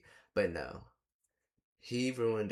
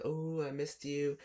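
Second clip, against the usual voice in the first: imitating the boyfriend; 5 semitones higher, slower than usual. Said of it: "He's hugging her like".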